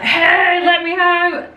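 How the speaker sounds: imitating Charlie's shout. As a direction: playfully voice Charlie demanding to be let out. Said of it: "Charlie was shouting at the back door".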